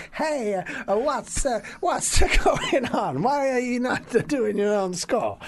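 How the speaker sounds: hammed-up Italian composer; mock Italian accent. Morricone asking why he isn't scoring, Italian accent. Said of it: "he said".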